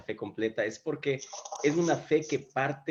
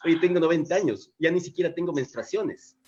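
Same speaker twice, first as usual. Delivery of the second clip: amused retold protest, pitched up; lightly acted incredulous old wife, higher voice; Sara protesting; 5 semitones higher, 4 dB louder than usual. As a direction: raise the voice in comic disbelief. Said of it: "Sara dice".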